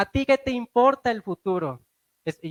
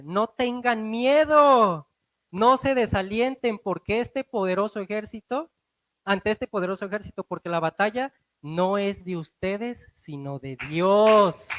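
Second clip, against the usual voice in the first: prophetic proclamation. Acted. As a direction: announce it like a prophet. Quoting prophet's message. (proclamación profética lenta y solemne)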